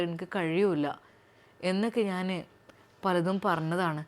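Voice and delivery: husband speaks gently to his new wife; husband's voice. Acted. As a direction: speak as the soft-spoken husband. Narrator voices the doctor.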